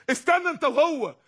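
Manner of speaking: peremptory call to wait; commanding divine order. Acted. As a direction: stop the condemned with a sharp command. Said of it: "ده بيقول للي بيترموا في النار".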